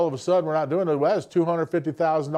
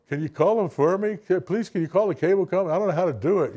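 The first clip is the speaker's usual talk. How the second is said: higher, slightly faster whiny plea; helpless millennial kid; 4 semitones higher than usual. Retold or imitated. Millennial kid asking someone to call cable company, whiny plea. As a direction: play a helpless kid begging for help. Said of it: "Dana Carvey did a great thing on his, you know, millennial kids".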